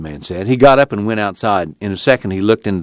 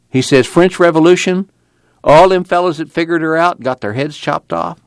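a lightly higher, tired preacher voice; weary preacher; 6 semitones higher than usual. Acted. Preacher telling Tom about a jailed union man, tired. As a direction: tell it like a weary old preacher. Casey's long speech, voiced.

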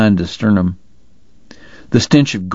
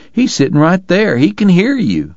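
higher, protesting cry; raised, urgent objection; cried out; 9 semitones higher than usual. A narrator's reading. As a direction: call out in protest. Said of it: "Morgan cried".

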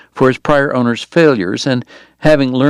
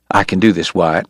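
quiet insistence; 5 semitones lower than usual. A narrator's reading. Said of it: "the dentist insisted".

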